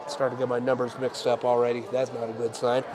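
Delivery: stuffy nose from a cold; congested. Real, not acted. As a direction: talk through a blocked nose. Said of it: "sorry for sounding congested".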